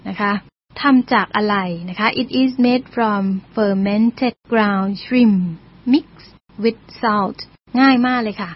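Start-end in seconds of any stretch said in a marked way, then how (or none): 2.2-7.4 very slow, word-by-word English reading; slow read-aloud. Shown as a demonstration. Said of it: "teacher reads English example aloud". (อ่านประโยคภาษาอังกฤษช้ามาก ทีละคำ)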